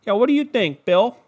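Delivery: high, loud mock TV host; hammed-up handoff to a fellow panelist; pregame show host. Host throwing to the next analyst on the pregame show, hammed-up. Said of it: "that pregame show, could you just imagine".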